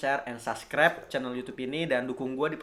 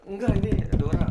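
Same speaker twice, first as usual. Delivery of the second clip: voicing Dora; 3 semitones higher, 5 dB louder than usual. Voicing Dora in retold scene.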